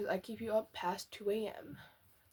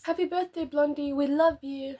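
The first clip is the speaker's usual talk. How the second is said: higher, louder put-on toy voice; plush toy's voice; 4 semitones higher, 6 dB louder than usual. Speaker voicing the plush moose's birthday wish, cheerful and high. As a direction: give the toy a cheerful little voice. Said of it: "Vanny can do the voice for the other people".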